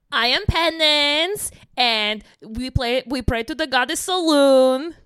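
Penance. Acted. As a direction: play the devotee with a measured accent. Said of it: "I could do Sarah's, uh, character".

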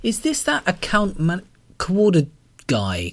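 pin him down as the coordinator; demanding. A narrator's reading. Callum accuses the caller of being the coordinator. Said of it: "Callum demanded".

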